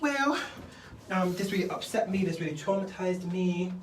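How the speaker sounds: high, strained whimper that settles back down; hammed-up weepy complaint; mock crying. Trisha on camera upset after Vegas, mock tearful whine. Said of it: "like, crying, bare crying".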